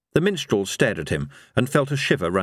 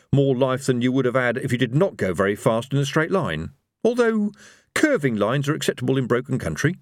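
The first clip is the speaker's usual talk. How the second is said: lightly voiced, slightly high character; a hint of pedantic self-justification; Rincewind, justifying cowardice; 4 semitones higher than usual. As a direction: explain it carefully, as if it were doctrine.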